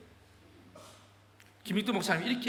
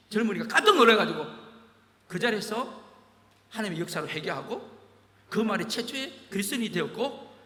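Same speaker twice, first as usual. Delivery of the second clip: ordinary talk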